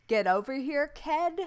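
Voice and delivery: bad Boston accent, yelled. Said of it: "isn't calling everybody kid a Boston thing".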